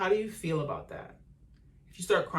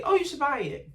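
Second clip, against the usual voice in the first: higher reassuring mom voice; imitating mom; 9 semitones higher, 3 dB louder than usual. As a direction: play mom giving the go-ahead. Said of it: "she would basically say".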